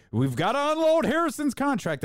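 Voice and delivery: high-pitched whiny-fan parody; mocking fans. Imitating fans demanding a contract dump, mocking high voice. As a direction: push it up into an overwrought squeal. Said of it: "I love that when fans do that".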